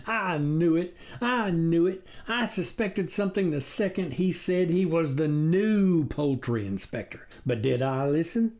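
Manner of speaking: lightly voiced despairing farmer; upset farmer. Farmer lamenting to his wife, distraught.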